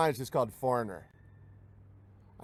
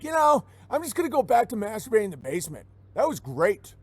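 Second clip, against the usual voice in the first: fast, raised mock yell of a slacker; lazy white guy; 5 semitones higher than usual. White guy shrugging off work, fast mock shout. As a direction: blurt it like a basement slacker brushing off work. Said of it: "the white guys are like".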